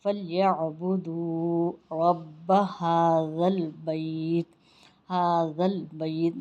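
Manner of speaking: slow chanted recitation with long vowels; drawn-out recitation. Shown as a demonstration. Teacher reciting the verse to students, slow chant. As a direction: recite the verse slowly, stretching the madd. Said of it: "یہاں ہم کھینچ کر پڑھیں گے".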